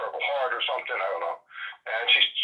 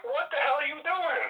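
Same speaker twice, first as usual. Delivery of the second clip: mock disbelief. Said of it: "And I'm like".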